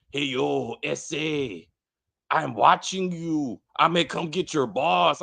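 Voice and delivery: lightly imitated fake cholo accent; put-on Latino tough-guy accent, mildly done; mock Hispanic accent. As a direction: mimic an actor's bad Hispanic accent. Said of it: "His efforts at a Hispanic accent".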